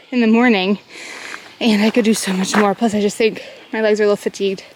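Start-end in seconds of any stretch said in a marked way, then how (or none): none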